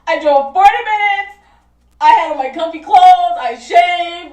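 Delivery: high, exasperated venting; worked-up, half-joking rant; pissed off. Real, not acted. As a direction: complain indignantly with laughter underneath. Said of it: "I'm fucking pissed".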